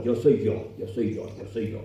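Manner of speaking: fading into a whisper, self-centred; mock self-absorption. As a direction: chant it to yourself until it's only a whisper. Mocking selfish individualism.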